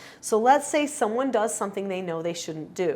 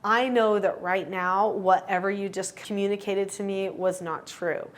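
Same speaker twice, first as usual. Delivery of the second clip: calm. Shown as a demonstration. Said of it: "calmly say".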